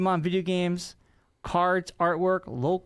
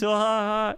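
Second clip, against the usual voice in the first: imitated jokester laugh; 6 semitones higher, 3 dB louder than usual. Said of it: "And he said it, like, three times".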